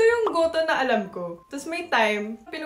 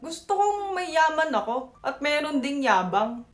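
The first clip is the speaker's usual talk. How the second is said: put-on Batangueño accent; 3 semitones higher, 4 dB louder than usual. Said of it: "mag-Batanggenyo accent".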